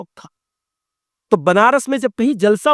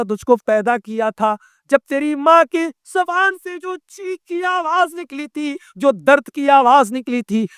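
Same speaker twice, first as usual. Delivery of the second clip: stern rebuke; 4 semitones higher than usual. Retold or imitated. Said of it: "کہا".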